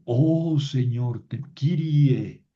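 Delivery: Oh Señor, Kyrie drawn out slowly; slow vocative. Shown as a demonstration. Teacher models the vocative Kyrie, slow. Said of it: "es un vocativo".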